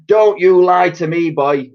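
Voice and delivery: high, loud scolding; shouting hag. A narrator's reading. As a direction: snap at the boy. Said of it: "the enormous old hag shouted".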